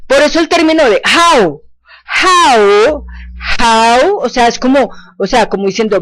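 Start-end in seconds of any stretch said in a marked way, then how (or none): 1.0-4.2 how with a dip then a rise; rising Chinese tone. Shown as a demonstration. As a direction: say how, drop the tone and bring it back up. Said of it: "bajamos el tono y volvemos y lo subimos".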